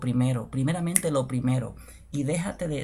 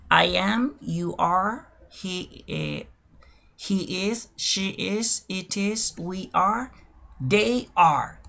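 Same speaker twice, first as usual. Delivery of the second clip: evenly spaced list, rising on each item; slow demonstration; 3 semitones higher, much slower than usual. Shown as a demonstration. Teacher running through the verb for learners, slow list delivery. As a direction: model each pair separately, pausing between. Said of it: "lo voy a hacer de manera lenta y despacio".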